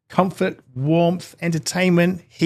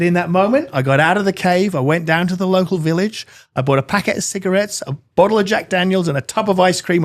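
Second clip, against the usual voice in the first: lightly voiced surfer telling his tale, higher; old surfer; 5 semitones higher than usual. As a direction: list it off as a hint of the surfer, pitched up. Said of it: "looks like an old surfer".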